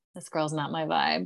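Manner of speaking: quiet whisper. Retelling a remark once made to the other speaker: imitating own past whisper. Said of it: "I think I whispered to you".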